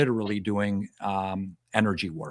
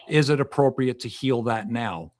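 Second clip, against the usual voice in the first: "appropriate" lightly emphasised within the question; stress on appropriate. Shown as a demonstration. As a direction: put gentle weight on "appropriate". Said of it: "emphasis on the word appropriate".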